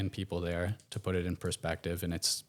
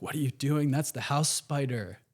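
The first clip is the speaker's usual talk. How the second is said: incredulous Aussies; 5 semitones higher than usual. Retold or imitated. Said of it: "I'm not gonna do an Aussie accent".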